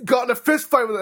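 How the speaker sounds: high-pitched mock astonishment; imitated disbelief. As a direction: imitate someone agog at wild gossip. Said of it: "Yeah, people, like".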